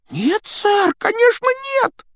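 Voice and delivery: high squeaky elf cry; exclaiming elf. Acted. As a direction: blurt it in alarm. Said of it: "воскликнул эльф". (восклицает тонким голосом)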